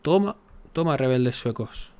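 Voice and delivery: excited gloating shout; gleeful cheer. Real, not acted. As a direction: celebrate like a goal just went in. Cheering rebels in rival land.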